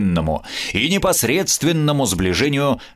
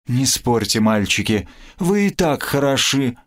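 a touch of sugary flattery; sweetly; 3 semitones higher than usual. Acted. Gerta flatters the two friends, lightly sweet. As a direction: coo it to charm the fighters. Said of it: "сладко пела Герта".

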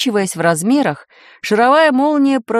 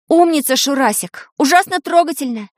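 higher-pitched teasing praise; mocking praise; 6 semitones higher than usual. A narrator's reading. Таня needles Шурасик to annoy him, mocking. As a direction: tease him sweetly in a raised voice.

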